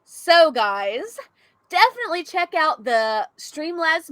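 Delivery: upbeat sales pitch; marketing voice. Shown as a demonstration. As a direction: sell it like an ad read. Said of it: "do you wanna hear my marketing voice?".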